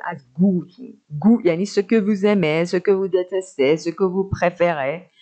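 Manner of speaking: ordinary delivery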